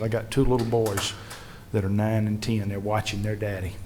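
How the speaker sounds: soft, understated quote of a crying father; subdued retold tearfulness. Crying lawmaker explains about his two boys, subdued. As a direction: retell his tearful words quietly, without sobbing. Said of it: "Joey's sitting in the corner crying".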